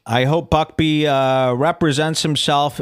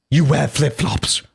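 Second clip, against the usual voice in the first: slow mock British jibe; put-on British accent, drawn out; 3 semitones lower than usual. Host reading Buckby's jibe at Lewis, British voice. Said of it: "read Buckby's voice in a British voice".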